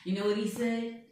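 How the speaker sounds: boastful blustering tycoon voice, put on all through; Donald Trump. President boasting to an interviewer, put-on blustering voice. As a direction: bluff and brag like a showman president. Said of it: "I'm Donald Trump".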